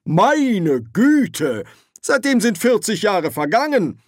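very high, loud, outraged; Ridcully outraged at the petty claim; exasperated. Acted. Quarrel, exasperated reply.

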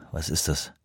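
leise, tiefer gebrummt; brummend. A narrator's reading. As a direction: die Frage unwirsch vor sich hin brummen. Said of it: "brummte er". (mürrisches Brummen)

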